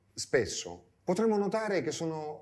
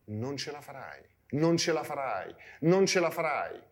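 repeated defeatist inner voice. Acted. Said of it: "continueremo forse a ripeterci una frase".

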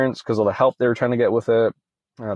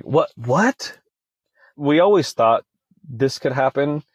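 freaking out; 3 semitones higher, slower than usual. Retold or imitated. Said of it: "she just starts freaking out".

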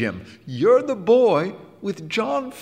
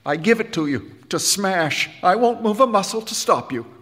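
emotional; 8 semitones higher, 4 dB louder than usual. A narrator's reading. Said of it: "puffing with emotion".

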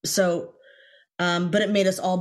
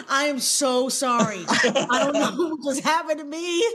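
laughing apology; 8 semitones higher than usual. Retold or imitated. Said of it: "I'm like".

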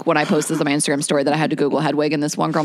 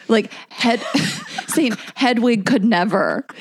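laughing; 5 semitones higher, slower than usual. Real, not acted. Laughing about Hedwig comparison.

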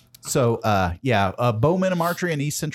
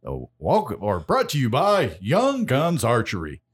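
announcer voice. Retold or imitated. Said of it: "like our announcer in the beginning".

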